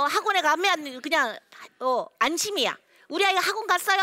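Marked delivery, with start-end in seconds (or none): 3.1-4.0 high, loud mock relieved mother; imitating a mom relieved her kid went to cram school. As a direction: sound like a proud, reassured parent. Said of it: "하고 안심이야".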